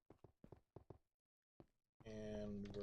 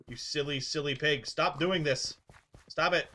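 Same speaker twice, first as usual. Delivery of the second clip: scolding the pig; 3 semitones higher, 5 dB louder than usual. Real, not acted. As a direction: snap at the runaway pig.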